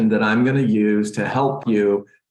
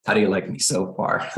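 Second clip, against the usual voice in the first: ordinary talk, nothing marked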